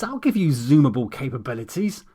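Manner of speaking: a hint of a threat; snapped. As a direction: snap it back at him. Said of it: "I snapped".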